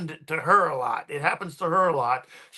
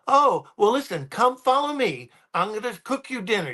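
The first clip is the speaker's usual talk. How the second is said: put-on higher, eager older woman, quickening; a hint of a pushy grandmother inviting; insistent old lady; 5 semitones higher than usual. Grateful lady insists he come to dinner, higher eager voice. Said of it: "she goes".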